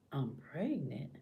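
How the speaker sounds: softly acted disbelief; stunned inner thought.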